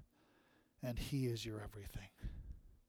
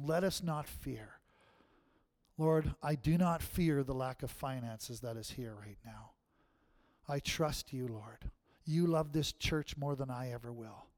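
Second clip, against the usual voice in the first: steady heartfelt prayer voice; earnest prayer. Acted. Pastor closing prayer, earnest. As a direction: pray it out earnestly.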